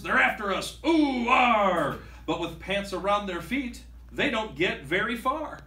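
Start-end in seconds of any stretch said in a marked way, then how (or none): 0.0-2.0 high, loud pirate alarm; fleeing pirate captain; panicked captain. Acted. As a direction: yell while fleeing. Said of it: "the captain roars".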